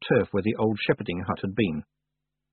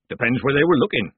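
louder, lifted, jokey start; cheerful; 4 semitones higher, 6 dB louder than usual. A narrator's reading. Village man joking about the iceberg woman, cheerful. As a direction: begin a cheeky joke brightly. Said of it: "the man began cheerfully".

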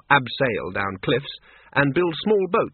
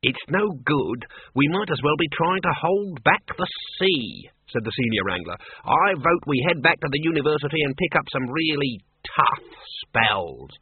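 lightly voiced, defeated wizard; senior wrangler giving up. Senior wrangler proposes retreat to the wizards, lightly acted resignation. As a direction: put a touch of character on a reluctant retreat.

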